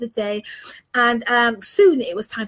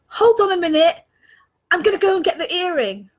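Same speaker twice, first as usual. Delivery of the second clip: calling out; 5 semitones higher than usual. Retold or imitated. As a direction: call out to the family to wait. Stopping family leaving the beach.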